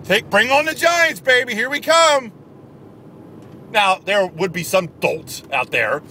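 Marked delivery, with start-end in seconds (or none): 0.0-2.3 mock fan. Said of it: "Would you have somehow said".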